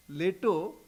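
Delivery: Leto, with a long "ay" in the first syllable; name as pronounced. Shown as a demonstration. Swami showing the nickname behind Plato, Leto said as LAY-to. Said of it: "but he would call him Plato".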